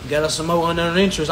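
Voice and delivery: a hint of a gloating CEO; lightly voiced boss counting profit; smug CEO. CEOs in the back, lightly mocked as gloating. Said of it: "and saying".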